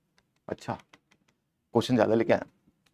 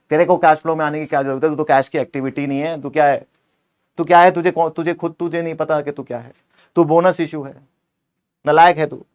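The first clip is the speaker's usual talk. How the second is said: mock scolding; 2 semitones higher, 3 dB louder than usual. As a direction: tell off the bonus issue like a useless kid. Teacher scolds bonus issue personified.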